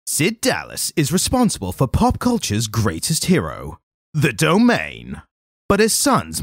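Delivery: dramatic trailer narration, lightly done; movie trailer voice. Shown as a demonstration. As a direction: read it like a blockbuster trailer announcer. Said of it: "my movie trailer voice".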